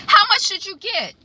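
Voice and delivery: hammed-up furious accusation; outraged daughter. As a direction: spit out the contempt. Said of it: "That's what she says to her mother".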